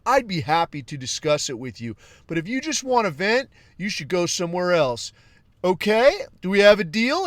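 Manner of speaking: mock leftist chatbot. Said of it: "it talks like a leftist".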